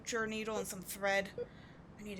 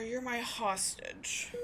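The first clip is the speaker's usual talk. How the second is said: sarcastic taunt; 2 semitones higher, much slower than usual. Acted.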